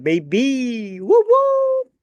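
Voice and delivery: high, loud whooping cheer; excited whoop. Real, not acted. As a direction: hype it up with a whoop. Excited hype for the film.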